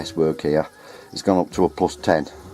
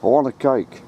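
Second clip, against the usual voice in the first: put-on cheeky kids; 8 semitones higher than usual. Seven-year-olds heckling man on ladders, high mock child voice. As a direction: play a bratty seven-year-old heckling. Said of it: "the abusement I got off some seven-year-olds".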